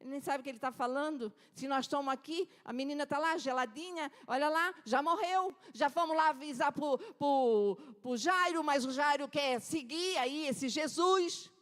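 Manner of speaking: scornful pity, quick and dismissive; mocking mourners. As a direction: laugh off the fool who thinks she lives. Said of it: "E eles começaram a rir".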